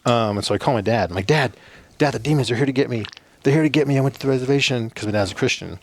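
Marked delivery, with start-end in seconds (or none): 1.3-4.9 fast, higher retold panic to dad; panicked call. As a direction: rush it out like you're scared stiff.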